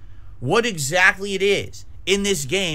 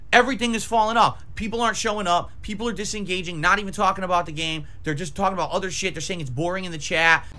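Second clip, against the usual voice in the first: wild unhinged ranting. Real, not acted. Ranting about chat disengaging.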